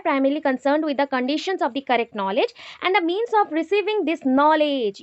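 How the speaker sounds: slow, word-by-word dictation pace; teacher dictating notes, slow and deliberate. Shown as a demonstration. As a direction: spell it out slowly so students can write. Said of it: "dictating a definition slowly".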